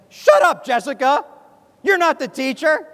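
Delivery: loud, high retold outburst; really mad. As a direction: act out snapping back at a pestering classmate. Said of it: "I got really mad".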